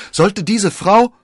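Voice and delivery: high, loud, slow and aghast; horrified cry. A narrator's reading. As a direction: cry out as a dreadful suspicion dawns. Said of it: "schrie er".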